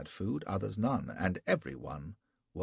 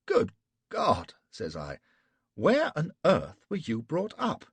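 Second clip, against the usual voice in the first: astonished man; 10 semitones higher, 9 dB louder than usual. A narrator's reading. Flashman astonished.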